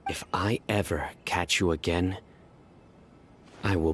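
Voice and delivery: a cold whispered warning to the smuggler; whispered threat. Acted. Investigator whispers a threat at the smuggler, menacing and hushed.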